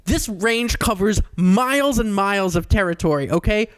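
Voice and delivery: a guide losing patience with a dumb tourist; hint of an annoyed tour guide; exasperated tour guide. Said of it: "And he's like".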